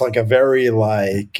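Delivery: normal talking voice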